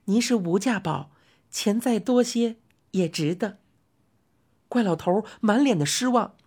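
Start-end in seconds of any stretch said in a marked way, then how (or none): 0.0-3.6 soothing lady customer. Acted. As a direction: coax the old man kindly. Customer answers fondly.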